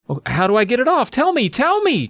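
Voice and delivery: squeaky high, desperate begging; begging girl. A narrator's reading. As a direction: beg like a panicked kid Carly Beth. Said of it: "Carly Beth begged".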